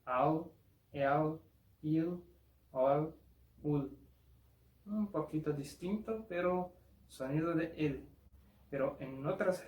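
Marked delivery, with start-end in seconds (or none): 0.0-4.0 "au, el, il, ol, ul" with a softened, darkened l; slightly different Portuguese l. Shown as a demonstration. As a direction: ease off each final l. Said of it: "se va a decir".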